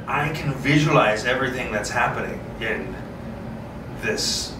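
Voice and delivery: ordinary delivery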